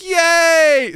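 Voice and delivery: high, loud squeal of joy; cheering food. Pretend. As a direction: squeal like a thrilled cereal bit. Happy food being eaten.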